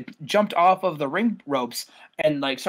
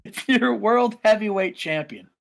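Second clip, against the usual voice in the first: mock wrestler's greeting, higher pitched; Jericho; 4 semitones higher than usual. Wrestler greets viewers from backstage, showy champion voice. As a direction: play a champion greeting the camera. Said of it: "He says".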